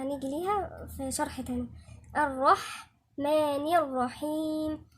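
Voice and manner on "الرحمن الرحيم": slow, measured tajweed recitation; unhurried, even-toned chanting; Quran recitation. Shown as a demonstration. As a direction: recite it with long drawn-out vowels.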